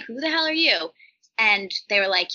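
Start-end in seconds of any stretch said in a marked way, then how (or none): 0.0-0.9 raised, baffled demand again; mock bewildered. Confronting the producers, mock bewildered. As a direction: act stunned by the strangers. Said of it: "So I'm like".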